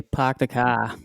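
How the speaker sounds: "Park" and "car" without the R; New England "Park the car", R's dropped. Shown as a demonstration. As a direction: say "car" as "cah". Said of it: "dropping our R's up here".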